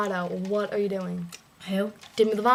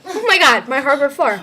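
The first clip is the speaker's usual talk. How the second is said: exasperated shout. Real, not acted. Shouting about floor.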